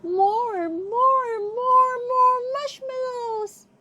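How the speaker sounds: high, loud, rising insistent chant. Acted. Lion demanding more marshmallows.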